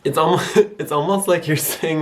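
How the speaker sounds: normal talking voice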